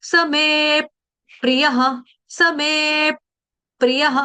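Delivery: समे प्रियः with force on मे; stress before pr. Shown as a demonstration. Teacher showing the stress before the conjunct. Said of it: "आधे प का आघात".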